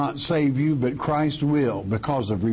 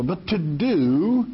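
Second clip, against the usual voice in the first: "do" drawn out slowly and pitched higher; stress on DO; 4 semitones higher, slower than usual. Real, not acted. Preacher repeating that the law must be acted on, emphatic. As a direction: lean long and high on the word "do". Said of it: "I repeat, not, not just to think also".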